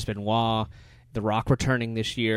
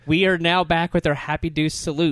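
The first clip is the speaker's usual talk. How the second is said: announcer voice; 6 semitones higher, 6 dB louder than usual. Acted. Announces show segment.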